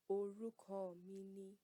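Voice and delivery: "Orúkọ mi ni" said slowly and clearly; slow answer, say each word; slow model answer. Shown as a demonstration. Teacher models giving your name, slowly. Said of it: "you would say".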